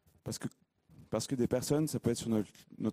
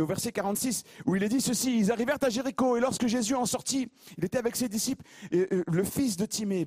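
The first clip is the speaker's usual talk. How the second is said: raised, lively bible reading to the church; scripture reading; 7 semitones higher than usual. Acted. Preacher reading the gospel to the congregation, raised and lively. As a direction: read it out with energy.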